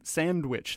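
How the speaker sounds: sandwich with the D clearly sounded; slow down and say sandwich as "sand-witch"; careful D. Shown as a demonstration. Host corrects himself on sandwich, pronouncing the D. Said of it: "Pronounce it right there".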